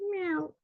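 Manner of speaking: high-pitched kitten meow. Pretend. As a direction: squeak out a tiny meow. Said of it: "these are sound effects".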